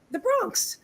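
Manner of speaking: put-on New York accent. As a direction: retell it with a touch of high New York accent. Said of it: "she's got this New York accent".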